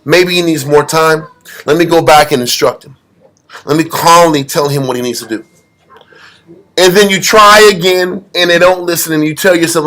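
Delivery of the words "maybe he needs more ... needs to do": calm, lowered voice of mercy; compassionate side. Retold or imitated. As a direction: reason it out gently, pitch settling lower. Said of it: "your compassionate side is like".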